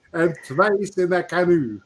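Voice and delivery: hint of a Swedish granny punchline; Swedish grandma accent. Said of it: "It is that delivery".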